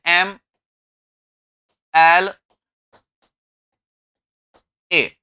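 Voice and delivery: एम, एल, ए spelt slowly, each letter set apart. Shown as a demonstration. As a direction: say एम एल ए one letter at a time. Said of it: "मेरे ख्याल से हम इस तरीके से बोलेंगे इसे". (अक्षर अलग-अलग धीरे बोलें)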